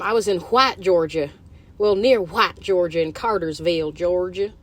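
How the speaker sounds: lightly put-on Southern twang on the place names; put-on Georgia accent. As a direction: play at talking like a Georgia local. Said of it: "I don't know why I'm talking like that".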